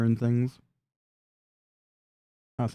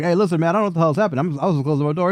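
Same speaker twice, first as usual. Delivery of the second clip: fast, higher-pitched protest; hurried character voice, pitched up; pleading bystander; 5 semitones higher, faster than usual. Acted. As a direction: rush out an excuse as a flustered bystander. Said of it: "And Mark Giraffe's like".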